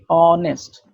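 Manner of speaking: honest said as onest, no h; honest with silent h. Shown as a demonstration. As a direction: start honest on the vowel. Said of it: "শুরু হয়েছে অ দিয়ে".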